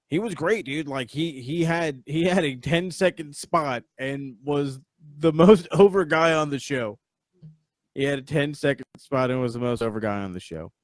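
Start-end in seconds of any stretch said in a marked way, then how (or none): 5.2-7.0 laughing. Real, not acted. Laughing while praising Funaki.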